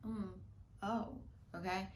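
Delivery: a gentle, unbothered mm; soft mm okay. Shown as a demonstration. Showing viewers how to watch a thought, soft. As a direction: softly hum and accept it. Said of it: "You just go like".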